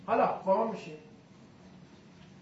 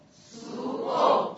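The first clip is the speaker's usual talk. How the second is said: سو او breathed without voice, very slow; slow voiceless drill; whispered slow demo; much slower than usual. Shown as a demonstration. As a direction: whisper سو او drawn out. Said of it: "تای حلقت بگو".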